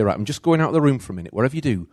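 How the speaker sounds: put-on fast, loud mum warning the kids; mother warning her daughter not to wake the baby, loud and quick; mum's warning. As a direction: rattle it off as a busy mum. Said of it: "I used to say".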